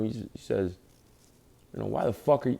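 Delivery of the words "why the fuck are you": mildly heated mock cop demand; cussing cop. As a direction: act out a cop cussing at a driver. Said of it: "he cussing at me too".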